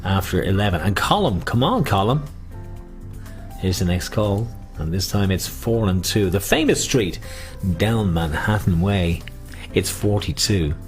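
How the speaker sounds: sing-song bingo call; bingo caller. Acted. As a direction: call the numbers out. Calling bingo numbers.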